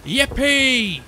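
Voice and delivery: high, loud whoop; exultant storybook cheer; gleeful cry. A narrator's reading. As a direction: whoop it in triumph. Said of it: "the T's cried out".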